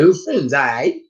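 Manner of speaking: mock British greeting, rising at the end; hammed-up British hello; bad British accent. Shown as a demonstration. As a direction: put on a silly British accent. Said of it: "and then I did it".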